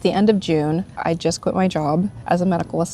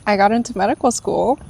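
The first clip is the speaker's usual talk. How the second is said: teary, choked up; 3 semitones higher than usual. Real, not acted. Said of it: "I don't know why I'm crying".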